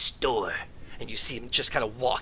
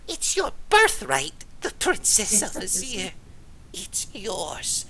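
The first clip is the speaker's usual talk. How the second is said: high, slow gnome proclaiming a birthright; the gnome tempting them; solemn gnome; 7 semitones higher, slower than usual. Acted. Gnome offering the book.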